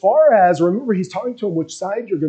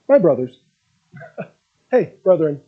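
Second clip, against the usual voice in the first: gentle and calm; 4 semitones lower than usual. Acted. Jesus turning calmly to his followers, lightly gentle. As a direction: greet them kindly, unhurried. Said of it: "a gentle and calm way".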